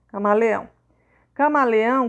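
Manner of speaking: "Camaleão" with the weight on the final "ão"; stress on ÃO. Shown as a demonstration. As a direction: let "ão" be the strongest part of "Camaleão". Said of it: "a parte mais forte é o ão".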